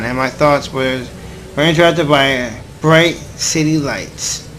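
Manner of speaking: slow, measured reading of the narration; story narration. Acted. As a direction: read it like an inner monologue, unhurried. Reads visual novel narration aloud.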